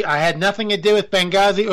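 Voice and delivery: put-on a botched Hillary voice that lands in the wrong accent, barely off his own; a failed first try at the impression, close to his normal voice. Vlogger fumbles a Hillary impression, wrong accent. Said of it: "Oop, wrong accent".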